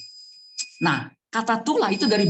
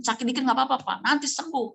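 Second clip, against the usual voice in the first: reassuring doctor; 9 semitones higher than usual. Retold or imitated. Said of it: "doctor reassures the father".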